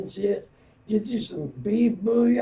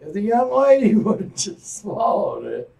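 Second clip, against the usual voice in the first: laughing correction. Real, not acted. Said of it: "I'm sorry".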